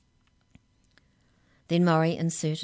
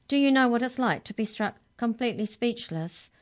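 higher, accusing question; indignant demand; 7 semitones higher, 4 dB louder than usual. A narrator's reading. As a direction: press the grievance indignantly. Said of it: "Mallory demanded".

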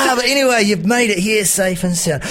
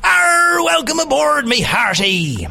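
excited pirate; 11 semitones higher than usual. Acted. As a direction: gasp and shout with delight, pirate style. Pirate amazed at Emma arriving.

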